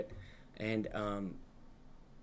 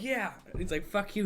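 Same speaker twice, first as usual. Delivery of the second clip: mock high voice; 8 semitones higher than usual. Mocking villain voice.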